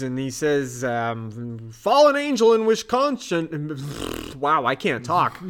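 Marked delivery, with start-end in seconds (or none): 1.7-3.8 grave secret code words; dramatic code phrase. Retold or imitated. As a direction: say it like a covert order.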